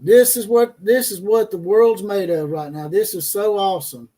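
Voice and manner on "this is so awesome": dry sarcastic praise. Acted. Host mocking a player's fourth transfer, sarcastic. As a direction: say it like you mean the opposite. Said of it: "Sarcasm once again".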